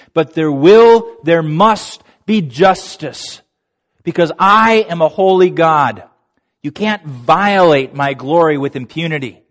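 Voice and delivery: forceful, emphatic preaching voice, lightly acted; mildly dramatized divine declaration; God. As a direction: declare it with weight, stretching key words. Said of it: "And God says".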